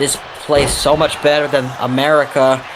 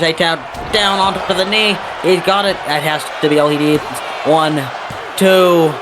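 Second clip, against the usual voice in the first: excited play-by-play; 3 semitones higher than usual. Real, not acted. Commentator sensing the winning pin, excited. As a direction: punch the move, then drive the count. Calling a finisher and pin count.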